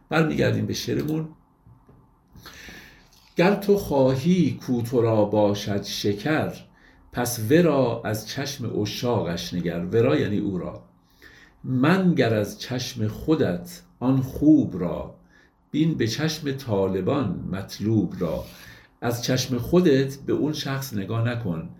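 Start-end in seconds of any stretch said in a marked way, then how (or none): 3.4-9.8 slow, measured reading of classical verse; poetry recitation. Acted. Lecturer reciting a Rumi verse to his audience, slow and measured. 11.6-18.4 slow, measured reading of classical verse; poetry recitation. Acted. Lecturer reciting a Rumi verse to his audience, slow and measured.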